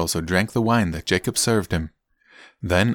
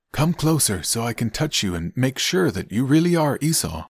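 put-on higher-pitched, lilting old-testament father; a hint of the searching father; lightly voiced Isaac; 6 semitones higher than usual. Isaac summons his son to touch him, lightly voiced father.

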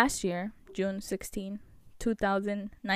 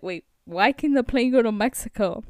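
louder baffled question; incredulous; 6 dB louder than usual. Retold or imitated. Host retells questioning airline staff, incredulous. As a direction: retell a confused protest. Acted protest at cancelled plane.

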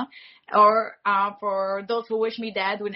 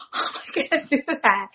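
mock panic; 4 semitones higher, much faster than usual. Retold panic.

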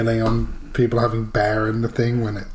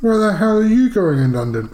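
shocked; 9 semitones higher, 4 dB louder than usual. Real, not acted. Shocked outburst at gay London.

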